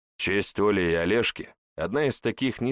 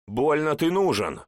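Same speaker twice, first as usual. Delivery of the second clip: high raised retort; shout; 8 semitones higher, 3 dB louder than usual. A narrator's reading. Hawk shouts at the old man through the closing portal. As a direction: fling it back through the portal. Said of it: "кричит ястреб".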